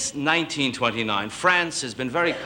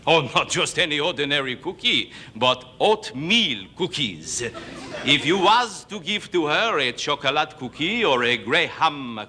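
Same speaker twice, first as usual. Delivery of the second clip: put-on lightly accented French storyteller; mock French broken English; fake French accent. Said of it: "the great fake French singer".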